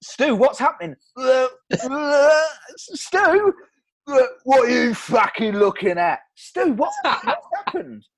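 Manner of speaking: panicked friend losing control; alarmed. Retold or imitated. Alarmed host as Stu turns drunk.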